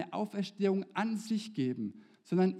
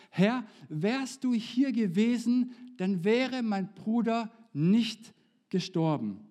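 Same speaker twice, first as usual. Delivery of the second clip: slow, louder and higher, drawn-out reproachful plea; Martha's lament; 5 semitones higher, 5 dB louder, slower than usual. Retold or imitated. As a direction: lean into every word as a grieving sister pleading with Jesus. Martha's reproach, voiced by preacher.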